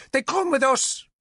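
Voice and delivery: high, defiant shout; princess shouting. A narrator's reading. Princess defies the lord, shouting. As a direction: throw it back at him. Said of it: "Argant shouted".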